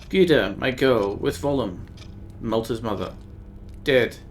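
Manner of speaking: a hint of a grieving old woman, archaic; lightly voiced old woman. Old Nika telling the stranger of her dead daughter, lightly grave.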